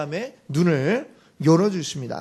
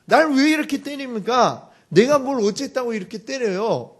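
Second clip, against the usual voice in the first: higher, louder indignant protest; protesting donkey; 4 semitones higher, 3 dB louder than usual. Acted. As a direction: demand to know why you're being beaten. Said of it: "막 따지겠죠".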